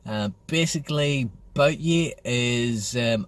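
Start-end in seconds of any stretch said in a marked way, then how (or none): 1.5-2.1 Belfast greeting. Shown as a demonstration. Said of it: "I'm having to put it on a wee bit".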